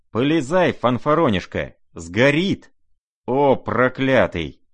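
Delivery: a loud, high frantic roar. Acted. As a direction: bellow at him in a frenzy. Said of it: "заревел Фердыщенко".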